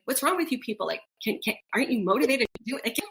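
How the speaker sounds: lightly exasperated retold quote, laughing by the end; mock impatience. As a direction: chide them in mock disbelief, breaking into a laugh. Voicing impatient reaction to slow locals.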